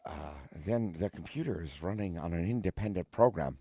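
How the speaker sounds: put-on Irish accent. Shown as a demonstration. Watson reasons with Holmes, demonstrating an Irish accent. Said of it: "how you do an Irish accent".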